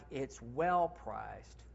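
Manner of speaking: "It's well priced" said slow and smooth, savouring each word; seductive phrasing. Shown as a demonstration. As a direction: sell it slowly, a little seductive. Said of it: "I like".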